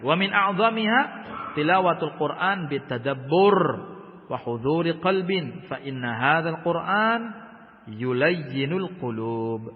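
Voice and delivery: recited Arabic from the book; Arabic text recitation. Acted. Reads Arabic kitab text.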